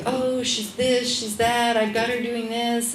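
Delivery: mock bragging doula. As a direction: show off like a know-it-all. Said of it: "the doula's like".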